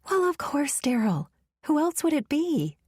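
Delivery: "Daryl." falling firmly, covering her slip; defensive mother. Acted. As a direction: snap back "Daryl." with a flat certain fall.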